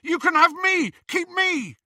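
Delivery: high, loud desperate pleading; desperate plea. Acted. Ron pleading with Bellatrix, high loud desperate. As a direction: beg them to take him instead.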